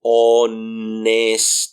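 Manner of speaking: honesto drawn out slowly, each sound held. Shown as a demonstration. Teacher shows learners each sound keeps its quality, honesto slowed right down. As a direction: stretch honesto out, "ooo-nnnes-tooo", H silent. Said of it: "every single sound retains their individual quality".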